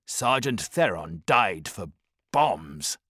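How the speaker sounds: bitter soldier. Acted. Seneca answering the briefing with slow bitterness. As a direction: drag it out, bitter. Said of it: "Caprico stiffened".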